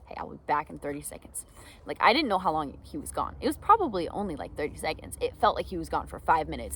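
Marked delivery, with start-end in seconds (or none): 0.1-1.5 whispered reassurance; a calm whispered promise to someone panicking; gentle whisper. Shown as a demonstration. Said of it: "this is why you gotta set expectations".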